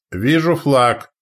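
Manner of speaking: high, loud, drawn-out cry; slow ringing shout; sudden lookout's shout. A narrator's reading. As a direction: call the sighting from the masthead. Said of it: "вдруг крикнул с мачты Трюгве".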